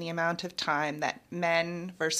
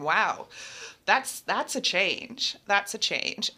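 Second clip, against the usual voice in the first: impressed wow; 3 semitones higher, slower than usual. Retold or imitated. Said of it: "texting Jenna and going".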